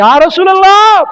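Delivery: high, loud emotional call; fervent address. Acted. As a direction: cry out to him. (உரத்த உணர்ச்சிக் கூவல்)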